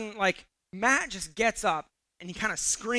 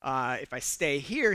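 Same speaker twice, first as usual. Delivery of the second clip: low, very soft thinking aloud; hushed, acted-out inner monologue; inner deliberation; 6 semitones lower, 7 dB quieter than usual. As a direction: mull it over under your voice. Retold thoughts in his head.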